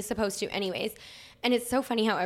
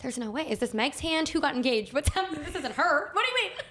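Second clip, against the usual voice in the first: disbelief; 4 semitones higher than usual. Retold or imitated. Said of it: "I was like".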